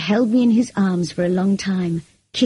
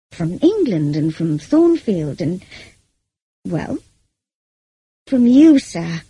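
on the verge of tears; 4 dB louder, slower than usual. A narrator's reading. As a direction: struggle to get it out before tears come. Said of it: "burst into tears immediately".

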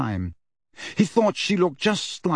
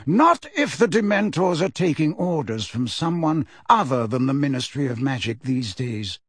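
calm. Acted. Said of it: "said Dumbledore calmly".

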